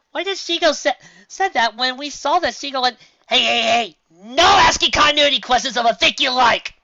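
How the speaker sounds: high, loud comic protest; hammed-up indignant objection; indignant interruption. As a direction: shout down the question. Question cut off by a scolding.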